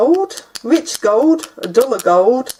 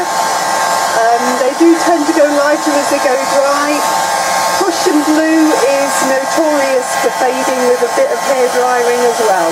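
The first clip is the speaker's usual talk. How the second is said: raised voice over a noisy hairdryer; over hair dryer. Real, not acted. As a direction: speak up over the blowing dryer. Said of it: "Live means you get to hear all of this".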